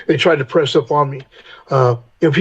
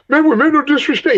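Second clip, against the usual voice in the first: put-on kids apologizing; 11 semitones higher than usual. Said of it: "These kids are".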